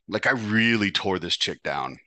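ordinary delivery

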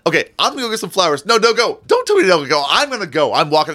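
loud, high, overdramatic bickering; acted squabble. Rose and actress arguing over leaving, overwrought. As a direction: play both sides of a heated spat. Acted quarrel between the two women.

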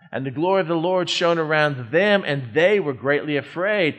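"them" and "they" picked out with weight; stress on THEM and THEY. Shown as a demonstration. Preacher reading the shepherds' story to his listeners, stress on "them" and "they". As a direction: lean on "them", then on "they". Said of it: "allows me to emphasize certain words".

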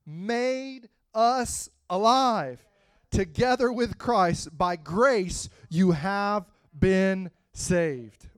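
slow, drawn-out verse reading; slow scripture reading. Acted. Preacher reading Ephesians slowly to the church. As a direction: read it slowly, savoring each phrase.

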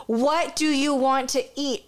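high giggling question to her daughter; laughing through quote. Retold or imitated. Mother laughing while asking her daughter what to eat. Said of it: "I was like".

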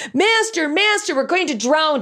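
terrified. Acted. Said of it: "The disciples were terrified".

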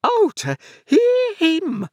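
very high, slow outraged screech; scream. A narrator's reading. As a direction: draw it out as a hysterical scream. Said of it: "with a clap of her hands and a scream together".

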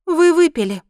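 high, loud accusation; firm, accusing woman; firmly. A narrator's reading. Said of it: "твёрдо сказала женщина".

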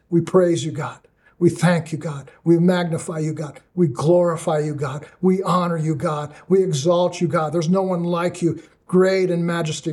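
earnest spoken prayer building in praise; fervent prayer. Real, not acted. Preacher praying in closing over his listeners, fervent prayer. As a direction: pray aloud over the listeners with fervour.

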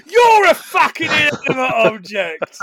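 a husband snapping back at his wife; angry retort. Retold or imitated. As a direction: fire the insult back at her. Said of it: "What does he say".

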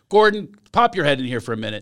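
lightly voiced mom, quick; a hint of his mother calling; mom impression. Son imitating his mom calling Gordon in, lightly voiced. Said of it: "I do a best mom impression".

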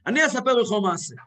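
L of "לך" softened into a W; imitated missing L. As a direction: imitate grandfather saying "לך" with W for L. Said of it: "לא היה לו למד, היה לו ומד". (חיקוי סבא, "לך" בלי למד, עם וו)

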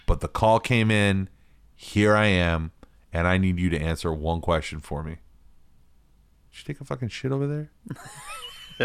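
calm him down, then demand the answer; serious cop voice. Retold or imitated. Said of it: "a really serious voice".

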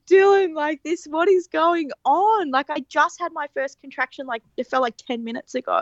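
high, strained, tearful plea to Dylan; crying out to Dylan in disbelief; retold crying panic. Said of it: "then I started crying".

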